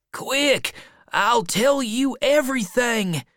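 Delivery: high-pitched, urgent plea; urgent boy. A narrator's reading. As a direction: call up to them urgently. Huck pleading urgently at the door.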